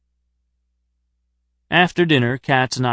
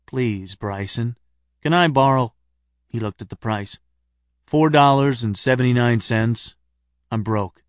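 solemn jokeless tone. Acted. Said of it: "adopted a sudden, solemn, jokeless tone".

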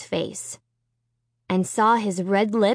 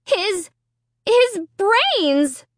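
high, horrified choking cry; choked out; 10 semitones higher, much slower than usual. A narrator's reading. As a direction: force it out through horror. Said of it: "I choked out".

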